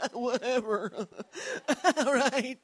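high, laughing brush-off; dismissive passenger. Retold or imitated. Passenger brushing off the attendant, high and dismissive. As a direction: shrug it off with a laugh. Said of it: "was like".

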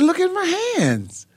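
high-pitched imitated tearful cry; retold crying. Son crying out to his dad about his hands, retold tearful plea. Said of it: "And I'm crying".

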